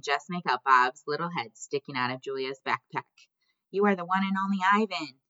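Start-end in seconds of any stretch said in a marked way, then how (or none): 3.7-5.2 raised, higher-pitched call. A narrator's reading. Little friend calling to Ivan from backpack, calling out. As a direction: send it out across a distance, pitched up. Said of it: "he calls".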